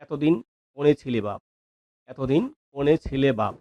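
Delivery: mild regional Bengali dialect, lightly voiced; a light village Bengali lilt on কোনে ছিলে বাপ; teacher lightly imitating regional Bengali speech. Shown as a demonstration. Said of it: "এই যে আমাদের আঞ্চলিক ভাষা".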